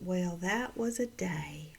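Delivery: put-on lightly drawn-out Southern accent; a slow, gentle imitation of a Southern drawl. Retelling how son mimicked Steve, slow Southern accent. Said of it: "beautiful little Southern accent".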